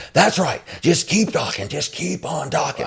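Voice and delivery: high-pitched imitation of a screaming drill sergeant; retold scream. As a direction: yell it sarcastically like a sergeant catching recruits talking. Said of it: "And then he screams out".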